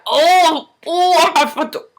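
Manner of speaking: rising, worked-up inner voice; frustrated outburst. Retold or imitated. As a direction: reenact frustration building toward a threat. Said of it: "I was getting real frustrated".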